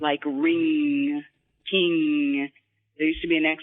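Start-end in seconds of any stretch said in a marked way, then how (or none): 0.2-2.5 ring, king, ng held in the nose; NG sounds. Shown as a demonstration. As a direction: ring and king with a long ringing ng. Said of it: "you work on a lot of N Gs".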